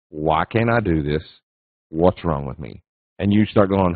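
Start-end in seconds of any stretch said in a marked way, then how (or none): 0.1-2.8 low, mildly dejected self-questioning; mock self-doubt. Struggling trader asking himself why he fails, mock self-doubt. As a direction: lightly act out a discouraged trader, pitched low. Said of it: "you start asking yourself really good quality questions".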